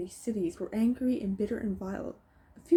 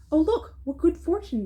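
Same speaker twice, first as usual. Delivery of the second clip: higher and louder, gloating crook; nasty bandit; 7 semitones higher, 5 dB louder than usual. A narrator's reading. Bandit spots his victim, nasty gloating. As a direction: sneer it out like a greedy thief. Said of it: "the nasty one said".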